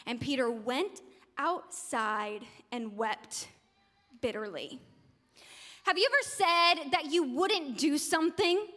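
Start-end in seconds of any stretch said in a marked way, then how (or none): 0.1-4.8 slow, soft, low and grave; hushed, heavy ending to the story; somber narration. A narrator's reading. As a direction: let the sorrow settle, pausing before the last word. Somber close of Peter's denial.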